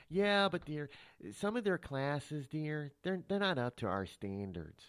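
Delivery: slowed Minnesota official, stretched vowels; Minnesota accent. Acted. Official dismissing another college's classes, Minnesota accent. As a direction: let the Minnesota vowels drag. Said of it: "I'm gonna use my Minnesota voice".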